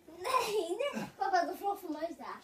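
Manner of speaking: fast laughing cry; being tickled. Real, not acted. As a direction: blurt it out while squirming. Child crying out while tickled.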